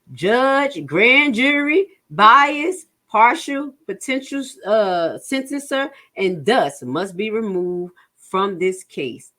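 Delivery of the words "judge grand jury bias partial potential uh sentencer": rising, louder, each charge hammered harder; building emphatic list. Real, not acted. A defender building outrage in a list of charges. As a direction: pile the accusations up with growing force.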